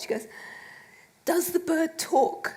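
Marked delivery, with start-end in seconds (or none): 1.2-2.5 slow, weighty mock-serious question; deliberate questioning. Publicist quizzes author on bird novel, slow and pointed. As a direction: draw the question out for comic suspense.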